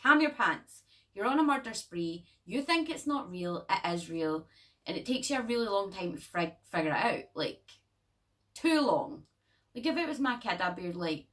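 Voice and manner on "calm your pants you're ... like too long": louder fed-up telling off, with Calm your pants punched; exasperated scolding. Retold or imitated. Viewer scolding the eager boy, exasperated and louder. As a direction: snap at an overexcited child. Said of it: "you're like".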